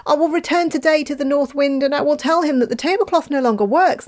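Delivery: put-on boy vows to confront the wind; boy's voice. A narrator's reading. Boy's defiant reply.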